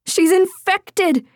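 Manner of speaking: high, slow, alarmed scream of warning; panicked scream. A narrator's reading. Stranger screams a warning down the stairs, panicked and high. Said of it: "she heard someone scream".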